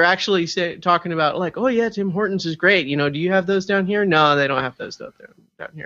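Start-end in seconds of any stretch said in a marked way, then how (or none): 1.6-4.0 put-on Canadian accent. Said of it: "I'm kinda doing the Canadian accent". 4.0-5.8 put-on Canadian accent. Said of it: "I'm kinda doing the Canadian accent".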